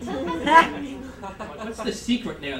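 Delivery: slow, stretched disbelief; incredulous. Retold or imitated. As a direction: drag it out, baffled.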